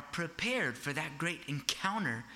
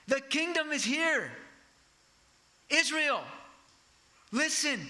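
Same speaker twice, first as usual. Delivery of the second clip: high, loud prophetic cry; proclaiming shout; 10 semitones higher, 4 dB louder than usual. Retold or imitated. John crying out to Israel, a high loud proclamation. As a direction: cry it out to the whole nation. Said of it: "in the sense of shouting".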